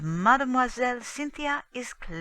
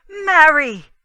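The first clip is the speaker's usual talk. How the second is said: a much louder, higher pleading shout of her name; anguished cry; 9 semitones higher, 18 dB louder than usual. Acted. Husband's pleading outburst.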